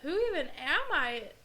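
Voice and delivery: loud, fast despairing cry; anguished outburst. Retold or imitated. Retelling her identity crisis.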